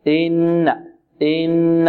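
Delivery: إن with a brief unforced "i"; short easy hamza. Shown as a demonstration. Teacher summing up the rule, easy short hamza. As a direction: keep the kasra of إن short and unpunched. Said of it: "هكذا".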